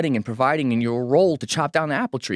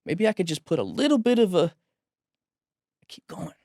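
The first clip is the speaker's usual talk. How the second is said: choked up; 5 semitones higher than usual. Real, not acted. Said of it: "I don't know why I'm emotional about that".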